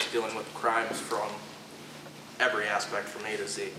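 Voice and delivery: nervous stutter, halting words. Real, not acted. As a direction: stumble nervously through the words. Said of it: "sorry, I'm stuttering".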